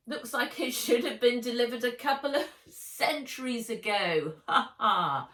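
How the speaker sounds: high, loud jokey voice; joking. A narrator's reading. Counter woman joking about a late parcel, laughing. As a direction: chuckle loudly at your own joke.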